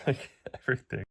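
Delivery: teary nervous laugh, voice cracking up; voice breaking. Real, not acted. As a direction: laugh through tears, pitch jumping. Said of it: "sorry if my voice breaks".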